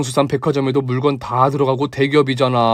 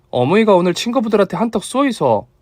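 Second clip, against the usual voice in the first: higher, lightly voiced daughter-in-law in dialect; a touch of a coaxing daughter-in-law; encouraging daughter-in-law; 7 semitones higher than usual. A narrator's reading. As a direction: urge mother-in-law on in a higher voice.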